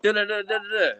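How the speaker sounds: "da, da, da" punched out as a rhythmic run; emphasized syllables. Shown as a demonstration. Rapper showing what emphasized lyrics are like, emphasized. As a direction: beat out each "da" for emphasis.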